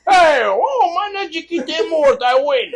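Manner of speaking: loud, high whoop of a winner; imitated jubilant father. Son imitating father winning on scratch-off, loud jubilant outburst. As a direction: holler it like the ticket just hit.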